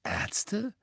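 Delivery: soft, high, puzzled echo; rising pitch, as if the word is unknown; baffled. A narrator's reading. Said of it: "sagte Ron und blickte verdutzt". (verdutzt nachgefragt)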